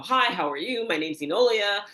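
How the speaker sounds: mock-polite corporate small talk; corporate greeting. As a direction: imitate an automatic business introduction. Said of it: "I would do in corporate".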